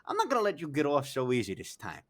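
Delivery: high-pitched acted indignation; pissed off. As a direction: protest like a fed-up friend. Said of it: "so pissed off".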